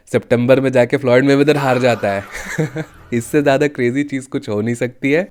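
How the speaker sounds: chuckling through the words at the thought of being wrong; amused, laughing at his own possible bad call. Real, not acted. Imagines his prediction failing. (हँसते हुए बोलना)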